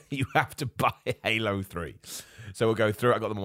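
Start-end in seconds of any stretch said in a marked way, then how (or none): 0.1-2.0 laughing. Retold or imitated. Mocking the game's non-ending.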